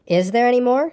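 quick, eager. A narrator's reading. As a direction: ask with a touch of eagerness. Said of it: "said Pooh quickly".

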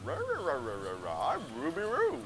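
garbled cartoon dog, all R sounds; Scooby-Doo. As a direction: babble like a talking dog, swooping in pitch. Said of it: "how would Scooby-Doo say that".

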